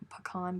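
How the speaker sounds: "pecan" as puh-KAHN, stressed second syllable; frou-frou pronunciation. Shown as a demonstration. Trying the frou-frou way, "pecan" as puh-KAHN. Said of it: "that sounds too frou-frou".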